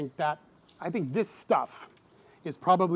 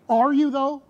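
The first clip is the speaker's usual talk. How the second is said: high, loud skeptical challenge; upset John; 9 semitones higher, 7 dB louder than usual. Retold or imitated. John challenging Jesus, upset and skeptical. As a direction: push back, doubting. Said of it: "he's so upset that he's like".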